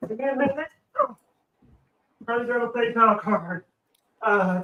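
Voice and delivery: winded, talking while scrambling for something; breathless and hurried from grabbing at things; out of breath. Real, not acted. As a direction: puff the words out in short bursts. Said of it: "you're, you're out of breath".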